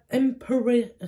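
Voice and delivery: «Empowered» prononcé à l'anglaise, lentement et appliqué; accent anglais. Shown as a demonstration. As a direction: dire «Empowered» avec un accent anglais un peu fier. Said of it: "félicitez aussi pour mon accent en anglais". («Empowered» à l'anglaise, posé et articulé)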